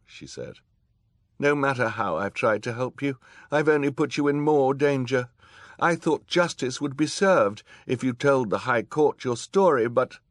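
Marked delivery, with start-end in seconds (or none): 1.4-10.2 high, loud, distressed apology; anguished judge. A narrator's reading. Judge apologising to the children, high anguished voice. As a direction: pour out regret, voice pitched high.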